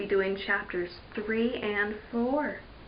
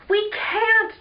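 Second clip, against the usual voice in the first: alarmed reply; 10 semitones higher, 4 dB louder than usual. Acted. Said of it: "Julie said".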